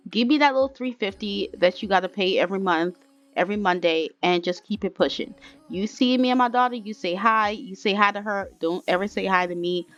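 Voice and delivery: mildly angry, insistent ordering out; pissed-off dismissal. Acted. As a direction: act out a fed-up woman throwing someone out. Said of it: "Nick has truly pissed her off".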